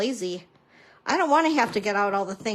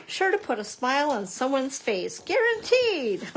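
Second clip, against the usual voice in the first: infomercial voice; 3 semitones higher than usual. Acted. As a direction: sell it like an infomercial host. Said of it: "Do I sound like an infomercial?".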